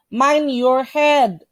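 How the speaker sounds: "Mind your head" drawn out word by word; slow, careful model. Shown as a demonstration. Teacher models a sign phrase for students, slowly. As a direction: read it slowly for learners to copy. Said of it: "teacher models warning sign".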